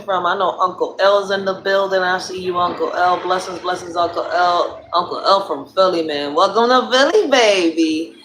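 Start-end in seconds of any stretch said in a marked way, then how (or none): 6.3-8.1 hyped welcome. Acted. Greeting Uncle L from Philly, hyped. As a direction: call out a playful hometown welcome.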